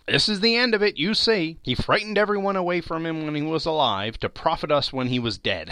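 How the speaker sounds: a touch of glee; gloating charwoman. A narrator's reading. Charwoman gloating over the dead man's money.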